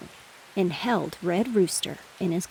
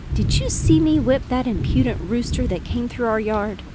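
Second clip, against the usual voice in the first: higher, louder bragging; boastful rooster; 4 semitones higher, 5 dB louder than usual. Acted. Rooster brags to the pig about his fight, louder. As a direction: crow about the victory. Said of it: "he said".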